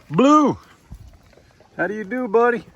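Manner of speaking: high, sing-song voice for a dog; pet-talk voice. Real, not acted. Greeting the dog again.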